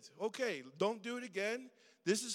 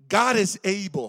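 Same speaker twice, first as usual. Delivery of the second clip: louder, ringing declaration of faith; bold proclamation; 12 dB louder than usual. Retold or imitated. Preacher quoting the faithful men, loud ringing proclamation. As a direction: proclaim it to the whole church. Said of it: "Look, look what they said".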